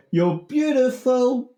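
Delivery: high, drawn-out mock holler; hammed-up shout, pitched well up; mock calling out. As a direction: call it out slowly like a smitten heckler. Acts out shouter in parody song.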